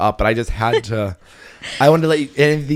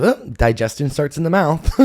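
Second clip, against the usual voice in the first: higher, lightly mocking quote; mocking little phrase; 4 semitones higher than usual. Host parroting dietitian friend's saying, lightly mocking. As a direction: parrot it like a silly slogan. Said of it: "all these dumb little phrases".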